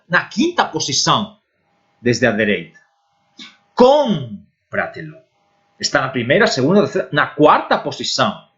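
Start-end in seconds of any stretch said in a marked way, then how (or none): 3.7-5.2 Cómpratelo drawn out slowly, stress on CÓM; Spanish pronunciation. Shown as a demonstration. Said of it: "olha essas palavras". (Cómpratelo bem devagar, tônica no CÓM)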